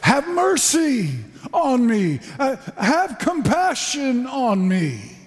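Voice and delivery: high, slow pleading cry; a lightly voiced beggar pleading; crying out for mercy. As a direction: beg like a blind beggar calling out. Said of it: "what he cried out was".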